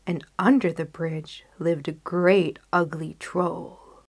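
measured storyteller's reading with lilting emphasis; fairy tale narration. Acted. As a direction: tell it like a fairy tale for children.

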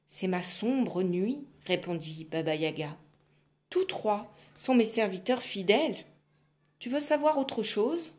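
lightly voiced witch. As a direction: savour the answer. Witch answers, probes.

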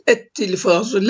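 "Et tilfazu" with a held double T; no L in the article, double the T in "Et tilfazu"; silent lam, doubled T. Shown as a demonstration. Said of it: "şeddeli olarak okunuyor".

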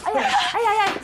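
startled yelps, half laughing; scalded and flustered, yelping; yelping at hot tea. Acted. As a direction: cry out as the tea burns you. Hot tea spilled on her.

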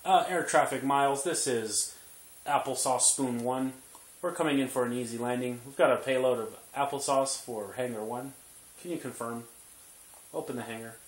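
playful air traffic call; radio chatter to the tower; pilot radio voice. Pretend. Pilot radio talk to baby.

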